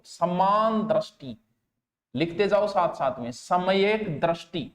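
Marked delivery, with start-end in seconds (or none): 0.0-1.4 समान दृष्टि spaced out slowly, each syllable held; slow dictation. Shown as a demonstration. Teacher dictating समान दृष्टि slowly to students taking notes. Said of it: "दो तीन बार देखो". 3.3-4.7 सम्यक दृष्टि drawn out slowly, each syllable held; slow dictation. Shown as a demonstration. Teacher repeating सम्यक दृष्टि slowly for students' notes. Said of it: "दो तीन बार देखो".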